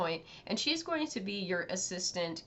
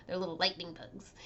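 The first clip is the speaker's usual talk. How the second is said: whispering; 4 dB quieter than usual. Real, not acted. Whispered aside.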